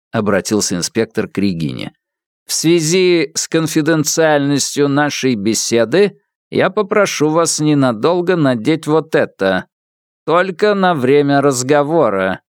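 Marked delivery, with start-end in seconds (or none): 2.5-12.4 synthesized voice. Acted. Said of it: "синтезированный голос".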